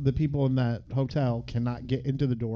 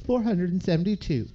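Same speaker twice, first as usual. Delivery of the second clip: imitating Elle; 4 semitones higher than usual. Acting Elle reciting facts to Hauser.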